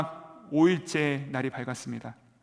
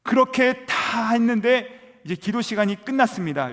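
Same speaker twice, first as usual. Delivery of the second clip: preaching at full force; 6 semitones higher, 6 dB louder than usual. Acted. (높고 크게, 느리게 외치는 설교)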